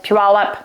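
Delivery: Puyallup said pyoo-AL-up; first syllable of Puyallup like "pew"; alternate pronunciation. Shown as a demonstration. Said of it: "however you wanna say it".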